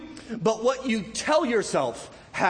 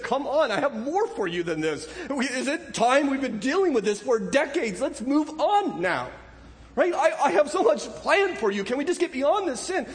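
voicing God; 5 semitones higher than usual. Preacher voicing God pleading.

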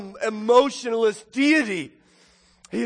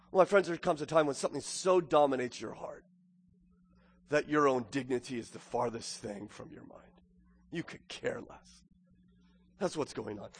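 low, soft aside to the congregation; hushed earnest; 7 semitones lower, 9 dB quieter than usual. Real, not acted. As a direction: drop right down into quiet sincerity. Drops to intimate, grave explanation.

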